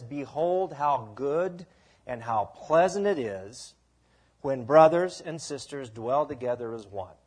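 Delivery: slow, measured reading of the psalm; scripture reading. Shown as a demonstration. Pastor reading scripture aloud, slow and measured. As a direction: read the verse slowly to the congregation. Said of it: "Psalm one thirty-three one says".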